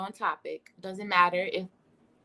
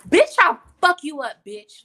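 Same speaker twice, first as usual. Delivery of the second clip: much higher, louder hammed-up yell; mock furious threat; 6 semitones higher, 11 dB louder than usual. Clapping back at someone close, hammed-up yell. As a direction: bark it like a street fight threat. Quoting angry clapback.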